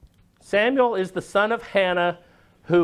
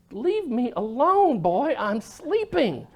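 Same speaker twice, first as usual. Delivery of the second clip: put-on slow, drowsy old man's grumble; an old priest, half asleep, waving the boy off; groggy Eli sending the boy back to bed; sleepy old man; 6 semitones higher, slower than usual. Sleepy Eli sends boy away.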